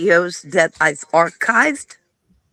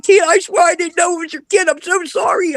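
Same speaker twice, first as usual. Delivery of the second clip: higher, hurried confession; mock-frantic friend describing the photo; girlfriend's flustered account; 9 semitones higher than usual. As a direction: play the friend squirming in embarrassment. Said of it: "She's like".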